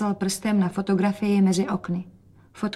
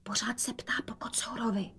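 soft breathy secret; barely voiced whisper; 2 semitones higher, 13 dB quieter than usual. Rozetka whispers to mother about father missing cat. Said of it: "dodala šeptem".

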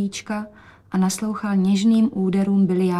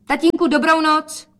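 high, louder bright goodbye; daughter's goodbye; 8 semitones higher, 5 dB louder than usual. A narrator's reading. Daughter saying goodnight to father, high and bright. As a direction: call a cheerful goodnight. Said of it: "poslala hubičku".

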